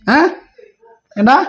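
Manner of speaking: ordinary delivery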